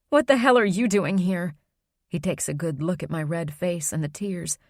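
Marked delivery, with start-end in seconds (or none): 0.1-1.5 angry. Acted. Confronting unwanted man, upset.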